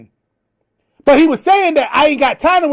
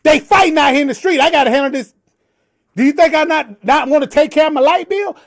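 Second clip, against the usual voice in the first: retelling own reply; 3 semitones higher, faster than usual. Retold or imitated. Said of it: "And I said".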